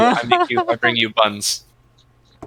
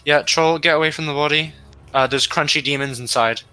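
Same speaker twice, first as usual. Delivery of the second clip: excited coaxing; 6 semitones higher, 5 dB louder than usual. Acted. Coaxing the troll off body.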